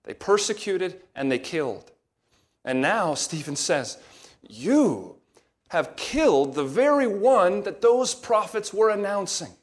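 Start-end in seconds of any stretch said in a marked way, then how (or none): 4.5-9.6 pointed, rising indictment; forceful accusation. Acted. Preacher hurling the apostles' charge, raised voice.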